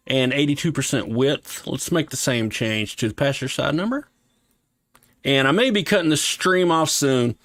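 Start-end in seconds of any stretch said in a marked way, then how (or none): 1.7-7.3 talking with a slight lisp. Real, not acted. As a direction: sore mouth, slight lisp on the s sounds. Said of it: "You can probably hear it in my voice, where I'm starting to get a little bit of a lisp".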